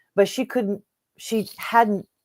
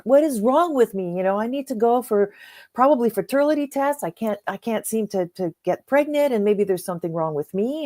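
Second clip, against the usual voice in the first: higher, mildly exasperated complaining; retold frustration; 4 semitones higher than usual. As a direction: echo her mild frustration. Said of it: "she would get so frustrated".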